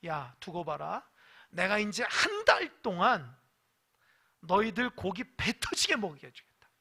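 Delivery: a lightly voiced divine threat; God's warning. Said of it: "어떤 응답하냐면".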